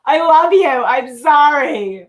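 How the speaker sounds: playful gushing. Real, not acted. Playful apology to partner.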